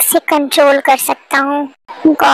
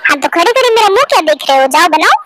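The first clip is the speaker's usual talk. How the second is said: bossy; faster than usual. Acted. Wife orders husband to cook.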